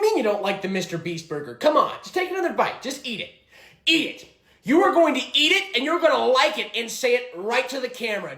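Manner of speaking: barking tyrant boss. Acted. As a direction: bark orders like a tyrant. Mister Beast parody boss.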